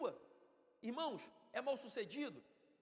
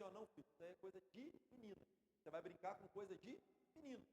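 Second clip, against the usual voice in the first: gentle fatherly correction; 12 dB quieter than usual. Acted. Father gently correcting son, acted.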